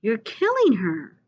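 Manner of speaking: put-on boy screaming at his father to let go; pleading shout. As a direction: plead desperately with Daddy to stop. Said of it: "I'm going".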